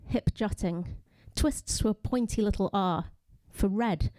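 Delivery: measured poem reading, phrase by phrase; poetry reading. Acted. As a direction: read the poem deliberately, pausing between images. Reads own poem aloud.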